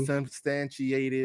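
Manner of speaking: very slow, deliberate newscaster word; news-report delivery. Shown as a demonstration. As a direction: stretch each syllable like a careful anchor. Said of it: "I know the way you can say it".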